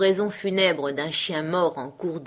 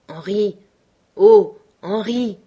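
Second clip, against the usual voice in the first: a slow, much louder call of his name; urgent call; 4 semitones higher, 10 dB louder, slower than usual. Acted. Bill urgently waking Henri in the night, a slow loud call. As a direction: rouse a sleeping partner in alarm.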